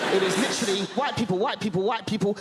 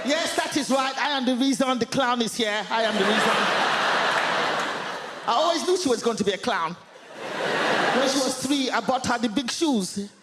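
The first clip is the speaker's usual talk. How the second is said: proud mum; 2 semitones higher than usual. Retold or imitated. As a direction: boast like a proud mother. Mum standing proud in audience.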